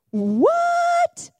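stretched-out high disbelieving what; astonished. Acted. Preacher to congregation, stretched astonished what. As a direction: sell the shock of the king's mercy.

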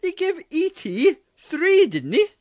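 high, loud incredulous whoa; mock outrage. Real, not acted. Friend hears the four rating and yelps in mock outrage. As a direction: feign shock at the score.

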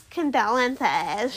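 slow, stretched mock condolence; sneering imitation of a casual sympathy; mocking mimicry. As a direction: parrot it back with drawn-out scorn.

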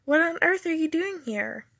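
surprised exclamation. A narrator's reading. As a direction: ask it in astonishment. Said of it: "Alice exclaimed".

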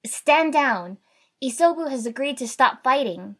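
loud, high commanding announcement; trying to sound authoritative. A narrator's reading. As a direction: call it out with authority. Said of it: "tried to sound authoritative".

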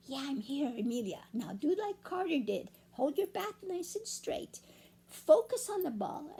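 a hint of a gentle ghost, hushed; Ghosty's voice. Ghosty coaching Amelia at bat, softly. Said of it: "Ghosty's voice".

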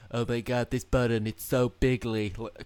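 Trump. Retold or imitated. Mocking Trump looking at button.

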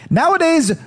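a high, odd take on the Trump voice, hammed up; lightly voiced Trump impression; mock Trump voice. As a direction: mimic Trump with a sneer. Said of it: "He's like".

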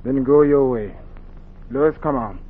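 loud, curt, final; angry dismissal. Acted. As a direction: cut her off and storm away. Brother leaves angrily.

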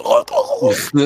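very high, loud mock cry of oh; hammed-up shouted oh, far too loud for the table. GM cries out mid-game, told to keep it down. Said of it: "Ah, moins fort".

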